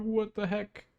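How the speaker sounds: high, squeaky mock disbelief; stunned what the heck. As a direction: pitch it way up in confusion. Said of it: "I'm like".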